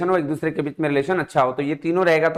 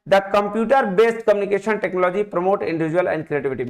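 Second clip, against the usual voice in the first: reading the question out slowly, word by word; 2 semitones higher, much slower than usual. Shown as a demonstration. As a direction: read it out slowly for the class. Reads statement slowly. (धीरे-धीरे प्रश्न पढ़ना)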